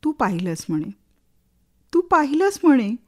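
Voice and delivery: lilting verse, refrain lifted then falling away; expressive poetry reading with rising and sinking lines; dramatic poem recitation. Acted. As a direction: recite with a swelling, questioning refrain. Recites favourite poem about rain.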